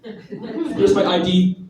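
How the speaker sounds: talking round a mouthful; mouth full. Retold or imitated. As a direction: mumble through a full mouth. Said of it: "stuff an entire crazy puff in my mouth".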